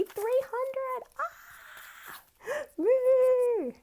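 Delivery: rising to a high, loud squeal; excited squeal. Real, not acted. Vlogger thrilled at counting cash, high squeal. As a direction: squeal with joy at the total.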